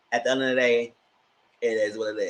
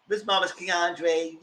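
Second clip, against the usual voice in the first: mocking drawl; 3 semitones higher, slower than usual. Real, not acted. Mocking nickname drawn out.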